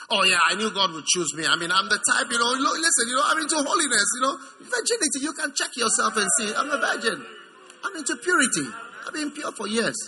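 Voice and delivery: hint of a self-satisfied boaster; lightly mocked self-righteousness. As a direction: lightly mimic someone proud of their own holiness. Mimics a self-righteous chosen girl.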